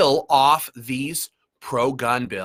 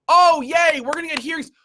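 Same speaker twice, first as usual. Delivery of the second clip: sarcastic cheer; 13 semitones higher, 4 dB louder than usual. Pretend.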